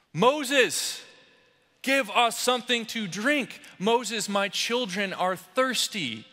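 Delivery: high, pleading cries to their leader; a thirsty crowd cries out to Moses, desperate and high; desperate crying out. Acted. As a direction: beg Moses like a parched, frightened crowd. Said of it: "crying and screaming out in their leader's ear".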